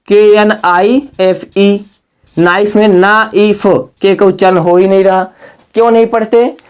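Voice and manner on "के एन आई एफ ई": slow, letter by letter; slow spelling out. Shown as a demonstration. Teacher spelling knife aloud, slow and deliberate. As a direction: spell it out clearly for the class.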